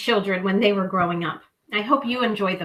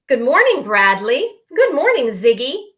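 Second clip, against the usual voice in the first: polite, bright calling greeting. Acted. Porcupine greeting friends, calling out politely. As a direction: call a polite hello. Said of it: "he called".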